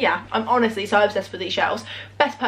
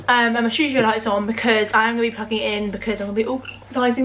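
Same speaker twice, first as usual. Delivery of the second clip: with hiccups. Real, not acted. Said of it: "Sorry, I've got hiccups".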